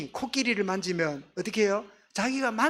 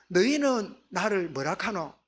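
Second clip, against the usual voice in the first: slow question in Gyeongsang dialect; lightly put-on Gyeongsang speech, drawn out. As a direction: recast the question with a Gyeongsang accent. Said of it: "우리 경상도 사투리면".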